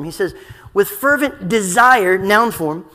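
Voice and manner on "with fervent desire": "desire" punched louder in a slow phrase; slow down and hit "desire" hard; emphasis on DESIRE. Shown as a demonstration. Preacher pointing out the noun form, emphatic on "desire". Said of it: "first in noun form".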